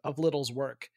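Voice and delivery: talking through hiccups; speech broken by hiccups. Real, not acted. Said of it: "I've got the hiccups".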